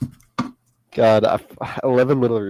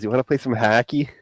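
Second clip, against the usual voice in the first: put-on Chicago accent. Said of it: "what's Chicago? Chicago is".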